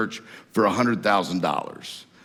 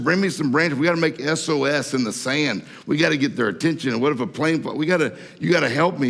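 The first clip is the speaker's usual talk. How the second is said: higher, pushier, half-hearted frantic pleading; mock panic; 5 semitones higher than usual. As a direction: play the stranded guy begging for help. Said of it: "he was just freaking out".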